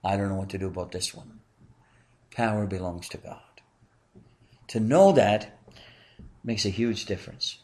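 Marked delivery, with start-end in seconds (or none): 0.0-1.4 mock panic, softer and fast; a playful mock of a flustered God; preacher imitating a panicked God, softer; freaked out. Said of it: "God is freaked out and says".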